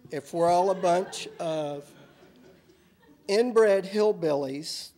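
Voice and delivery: sarcastic stress on the stereotype; scornful emphasis. Real, not acted. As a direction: lean hard and slow into inbred hillbillies, mocking the cliché. Mocking the Deliverance stereotype.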